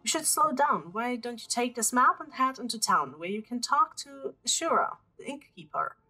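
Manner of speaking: put-on eager young scholar. Continues Gina's dialogue.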